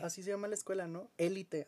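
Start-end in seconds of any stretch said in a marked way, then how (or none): 1.2-1.6 Élite with the weight on the first E, as the school's name; Élite stressed. Shown as a demonstration. Brother correcting his sister, stress on É. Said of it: "tiene acento en la E".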